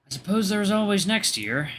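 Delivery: high-pitched prince's musing; prince voiced. Prince's quoted remark in story.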